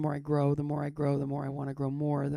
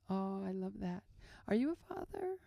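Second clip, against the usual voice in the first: odd nurse; 5 dB quieter than usual. Retold or imitated. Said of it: "she had a weird energy to her".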